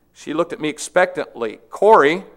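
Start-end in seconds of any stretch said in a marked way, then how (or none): 1.7-2.3 a nudging call of her name; prodding. A narrator's reading. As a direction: prod her sister to join in. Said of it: "she prodded".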